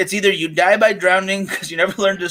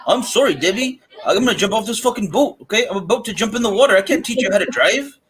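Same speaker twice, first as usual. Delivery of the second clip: put-on redneck Canadian accent; 4 semitones higher than usual. Podcaster imitating the drowning husband, redneck Canadian accent. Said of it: "a redneck Canadian accent".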